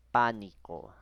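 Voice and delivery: pánico, punched loud on PÁ; stress on third-to-last syllable. Shown as a demonstration. Teacher giving an example word, pánico stressed loudly on its first syllable. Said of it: "en la antepenúltima sílaba".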